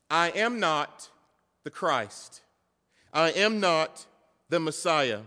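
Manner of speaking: slow, punched "I am not"; very emphatic denial. Acted. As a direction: deny it point by point, leaning on "I am not". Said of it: "very emphatic".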